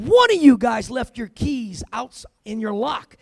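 loud, slow drill sergeant scolding; stern drill sergeant. Retold or imitated. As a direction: bellow it slowly at the whole room. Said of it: "slams them on the podium and said".

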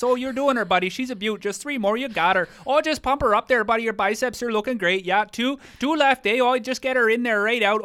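Canadian buddy spotting at the gym, hammed-up; Canadian weightlifting voice. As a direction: cheer your buddy on in broad Canadian. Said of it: "That's my weightlifting voice".

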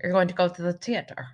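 "theater" said with a hard T; Irish T for TH. Shown as a demonstration. Imitating the Irish show for co-host, hard T. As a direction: make the TH in "theater" a crisp T. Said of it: "they say the T in front of the T H".

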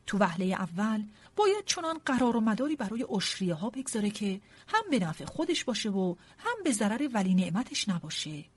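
mildly declaimed speech; understated oratory in a narrated character's voice; loud speechifying. A narrator's reading. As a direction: hold forth to the room. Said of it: "آنقدر بلند داد سخن داده بود".

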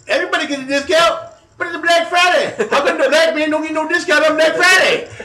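very high, loud put-on Black American accent in mock outrage; Ebonics imitation. Prank caller demanding a Black Friday discount from the manager, mock-outraged high, loud Black American accent. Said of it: "Ebonics imitation".

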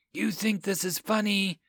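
sharp, indignant challenge; demanding. A narrator's reading. Lisa challenges laughing Ethan, indignant demand. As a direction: throw the question back at him, offended. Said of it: "she demanded".

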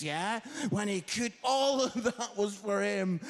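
mock excited reveal. Revealing Terry's missed master bedroom.

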